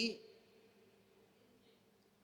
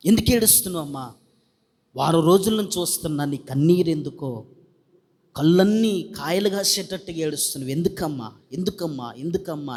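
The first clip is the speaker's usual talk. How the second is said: concerned pastor; 5 semitones lower than usual. Retold or imitated. Pastor gently questions weeping woman.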